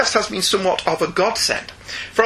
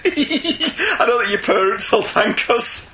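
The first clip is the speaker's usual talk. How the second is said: laughing; 5 semitones higher, slower than usual. Real, not acted. Laughing while joking.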